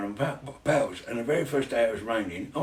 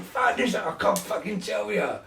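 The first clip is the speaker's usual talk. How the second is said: excited retelling; 3 semitones higher, 4 dB louder than usual. Retold or imitated. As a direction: gush with delight about the best week ever. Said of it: "and I went".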